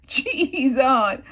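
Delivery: loud, high repeat of the outburst; loud mock exclaim. Vlogger repeating the boy's outburst, loud and high. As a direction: shout it again for effect. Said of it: "See here?".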